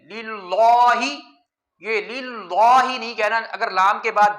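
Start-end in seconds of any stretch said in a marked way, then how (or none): 0.0-1.0 للہ with a full heavy lam, dragged very slowly; teacher demonstrating the wrong thick lam in للہ, very slow; heavy lam demo. Shown as a demonstration. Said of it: "لام کو موٹا پڑھنا ٹھیک نہیں".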